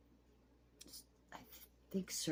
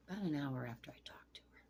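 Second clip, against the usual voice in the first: grieving whisper; 3 dB quieter, faster than usual. Real, not acted. Telling of friend's death.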